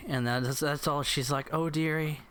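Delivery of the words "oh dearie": mock German accent, consoling mother; lightly voiced German mother. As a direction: play a German mom in a put-on accent. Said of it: "This is German".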